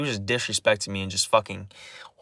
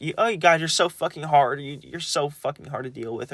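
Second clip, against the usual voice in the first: higher-pitched, fed-up imitation; exasperated grandma; 4 semitones higher than usual. Imitating grandma complaining about the speaker, exasperated. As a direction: mimic grandma at the end of patience.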